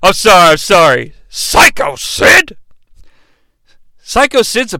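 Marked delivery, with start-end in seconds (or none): 1.3-2.6 high, slow surprised question. Real, not acted. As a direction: ask it in disbelief, drawn out.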